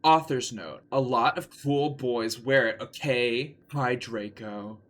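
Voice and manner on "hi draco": slow, soft, mopey hello; depressed. Acted. Ebony greets Draco, sounding depressed. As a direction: drag the greeting out gloomily. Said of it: "I said in a depressed voice".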